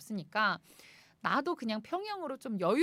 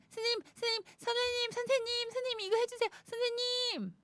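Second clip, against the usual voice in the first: put-on high, whiny children calling; kids calling teacher; 12 semitones higher than usual. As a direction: pester like a crowd of kids.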